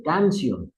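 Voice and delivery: canción stressed on the first syllable, CAN-cion; wrong stress. Shown as a demonstration. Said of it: "Así debería decir".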